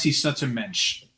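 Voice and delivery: echoing the fake Yiddish accent, slow and low; drawn-out mock Yiddish accent. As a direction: savor "mensch" slowly in a mock Yiddish accent. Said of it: "he assumed a fake Yiddish accent".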